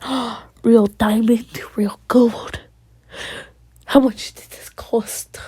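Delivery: hushed, breathless whisper over a diamond; awed whisper. Acted. Girlfriend gasping over the ring, awed whisper. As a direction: whisper it in awe, slowly.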